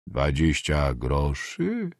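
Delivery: slow, low questioning repeat; incredulous echo. Acted. Peasant asked to return the coins, slowly incredulous. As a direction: drag the words out in disbelief, low. Peasant balks at repaying money.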